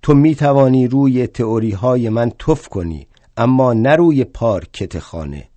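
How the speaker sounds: loud, indignant yell; shouting at him. Acted. Marx yelling at drunk Bakunin over the floor, loud indignant shout. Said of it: "سرش فریاد زدم".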